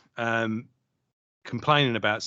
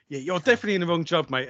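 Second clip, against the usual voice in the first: higher, quick, impressed verdict; mock admiring remark; 4 semitones higher, faster than usual. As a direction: imitate a workmate paying a compliment. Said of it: "for good and for bad".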